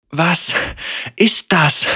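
high, breathless gasped question; gasping in fear. A narrator's reading. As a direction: gasp it out in shock. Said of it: "Senna keuchte".

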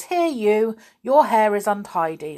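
lightly voiced strict schoolmaster; a hint of a bossy headmaster; mock stern teacher. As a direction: imitate the nagging teacher. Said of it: "Mister Grimm just says".

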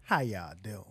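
very low, soft near-whisper; imitating laid-back Ali. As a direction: greet the crowd with barely any effort. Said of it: "Ali sits down and be like".

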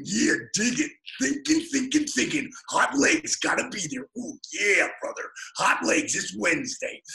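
lightly hammed-up wrestling promo hype; a hint of a Hulk-style promo, punching the words; wrestler promo voice. Club owner cutting his own commercial, light wrestler promo hype. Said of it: "throw in Hulk's voice".

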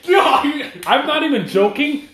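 high, slow, loud protest; laughing insistence. Real, not acted. Telling friends about the threat, high laughing protest.

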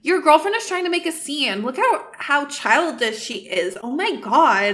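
whiny complaint with dragged-out endings; whining. Acted. Inessa complaining to Ajax about his girlfriend, whining. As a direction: complain petulantly, stretching the last words. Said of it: "Inessa starts to whine".

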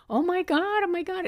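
high, loud mock panic; retold panicked scream. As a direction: relive the friend's screaming panic. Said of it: "Pat started to scream".

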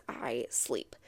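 deep, drowsy groggy voice; sleepy drone. Pretend. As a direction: say it half asleep. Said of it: "my reaction is always".

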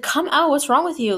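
mock exasperated call through a door. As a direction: imitate a concerned, impatient friend. Friend calls through porta potty door.

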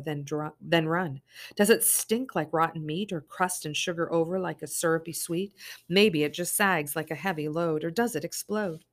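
measured, lingering poem reading; poem recital. Acted. Reading the dream poem to herself, measured and grave. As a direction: let each line of the poem land.

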